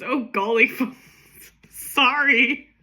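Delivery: hapless officer voiced through giggles; laughing police apology. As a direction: break into laughter mid-apology. Cracks up voicing the hapless police.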